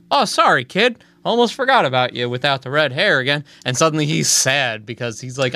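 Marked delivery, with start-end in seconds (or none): 0.1-3.4 mom voice. Retold or imitated. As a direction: chirp it like a distracted mother. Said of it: "and she goes".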